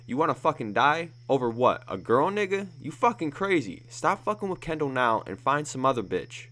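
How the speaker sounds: loud exasperated tirade; angry rant. Acted. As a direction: rip into him for risking his life. Gang member threatens at gunpoint.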